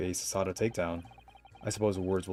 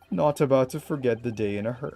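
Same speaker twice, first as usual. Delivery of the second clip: higher, louder cracking voice; 5 semitones higher, 6 dB louder than usual. Real, not acted. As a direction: let the voice break mid-word. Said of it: "my voice immediately cracked".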